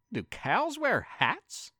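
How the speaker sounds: lightly voiced cat asking, slow; a hint of a puzzled cat; cat character voice. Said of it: "said the cat".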